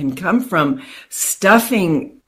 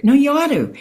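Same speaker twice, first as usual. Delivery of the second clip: insisting; 9 semitones higher, faster than usual. Retold or imitated. Arguing with date at dinner.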